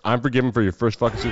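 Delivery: lightly voiced cocky taunt; a hint of a grinning jeer at fans; mimicking a cocky GM. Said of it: "with a smile on his face".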